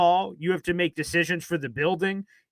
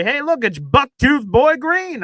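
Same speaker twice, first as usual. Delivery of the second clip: slow, higher, louder taunt; mock taunting fan voice; mocking heckler; 8 semitones higher, 7 dB louder, slower than usual. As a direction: imitate a chat troll teasing. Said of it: "he used to come in here and say".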